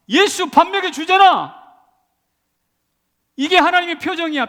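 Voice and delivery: very high, loud retort to scoffers; triumphant shout. Acted. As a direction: throw the taunt back at full voice. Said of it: "정정당당히 외치고 싶습니다".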